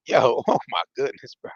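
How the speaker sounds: breaking into a real laugh mid-read; can't get through it for laughing. Real, not acted. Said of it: "I can't even read this shit without laughing".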